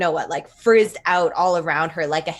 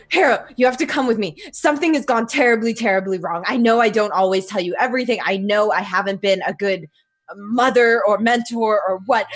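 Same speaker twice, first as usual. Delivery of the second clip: urgent rush; 3 semitones higher than usual. Acted. Mentor urging Harrow to break dimension, hurried. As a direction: pour it out in a desperate hurry. Wounded mentor urges hero.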